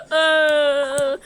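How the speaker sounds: drawn-out mock crying moan; pretend crying.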